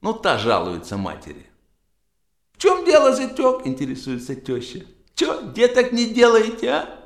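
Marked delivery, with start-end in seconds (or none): 2.5-7.0 high mother-in-law voice. Acted. Mother-in-law questioning her son-in-law.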